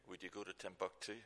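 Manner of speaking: softly voiced imitation of a whisper; a hushed, gentle question, still voiced; little whisper. The Lord asking the driver, in a little whisper. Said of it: "that little whisper in my ear".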